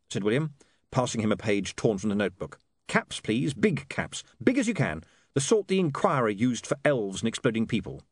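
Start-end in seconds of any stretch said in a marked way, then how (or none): 2.9-8.0 lightly voiced, higher-pitched young editor; specify the lettering to the printer; editor giving instructions. Voices William giving typesetting orders.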